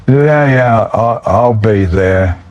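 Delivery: put-on slow, slurred drunk reply. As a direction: slur it out like he's plastered.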